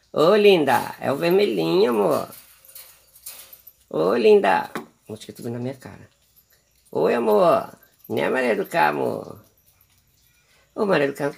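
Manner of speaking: high, sing-song coaxing of a pet bird; pet baby talk. Acted. Owner coaxing her pet bird Maria do Carmo to eat, cooing. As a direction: coo sweetly at the little bird.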